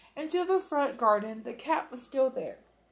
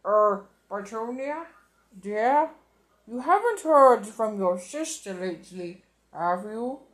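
nervous; 3 semitones lower, 3 dB louder than usual. Acted. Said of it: "He cleared his throat nervously".

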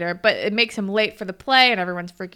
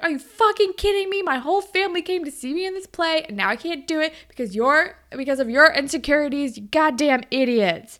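mock rant; 5 semitones higher than usual. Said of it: "She goes off".

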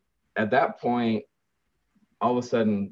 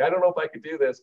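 retold overwhelmed newcomer; 7 semitones higher, much faster than usual. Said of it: "her eyes were like saucers".

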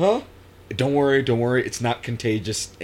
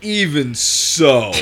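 drawn out; 5 dB louder, much slower than usual. Real, not acted. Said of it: "insisting, stretched".

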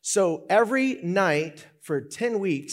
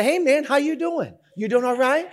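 higher, friendly greeting; upbeat mock-friendly check-in; cheerful traffic cop; 7 semitones higher than usual. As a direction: play an imagined chummy cop. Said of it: "like, cheerful people".

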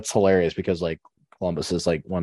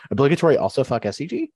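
blurted confession; 7 semitones higher, 3 dB louder, faster than usual. Real, not acted. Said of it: "That's also one I should say out loud".

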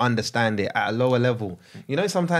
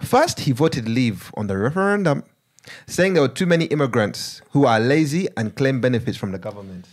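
put-on Ugandan accent. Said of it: "I'm gonna read it in Ugandan accent".

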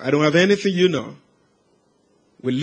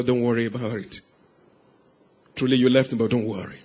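gentle forgiveness; 7 semitones lower, 6 dB quieter than usual. Retold or imitated. Son forgives his dying father.

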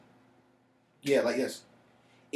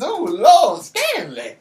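high, loud hammed-up wail; old man lament; 12 semitones higher, 14 dB louder, much slower than usual. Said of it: "He said".

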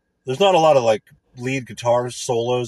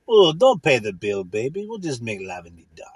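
mock seductive cheapskate; 2 semitones lower than usual. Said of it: "Or something ridiculous".

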